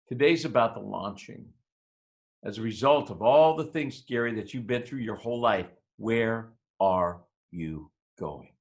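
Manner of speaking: low, measured teacher's counsel with weighty pauses; solemn mentor. Retold or imitated. Teacher counsels a troubled student after the lesson, solemn.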